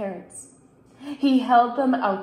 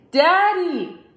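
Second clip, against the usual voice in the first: higher, firmer call; a bit louder; 7 semitones higher, 7 dB louder than usual. A narrator's reading. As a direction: raise your voice to wake him. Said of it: "said it a little bit louder".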